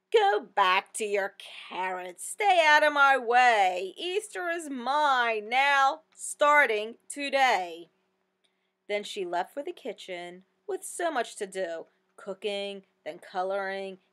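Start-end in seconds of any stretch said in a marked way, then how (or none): 0.1-7.9 louder, slow, defiant hen; defiant chicken. Acted. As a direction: stake your claim, word by word.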